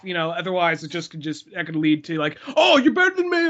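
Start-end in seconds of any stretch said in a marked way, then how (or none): 2.6-3.5 mock offence. Imagined stranger taking offence.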